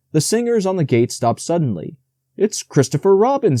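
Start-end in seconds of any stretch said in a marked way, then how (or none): 2.4-3.6 eager. A narrator's reading. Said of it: "said Pooh eagerly".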